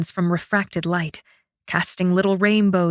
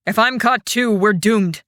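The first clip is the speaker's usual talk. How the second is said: tense warning. Acted. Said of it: "Fen screamed at him".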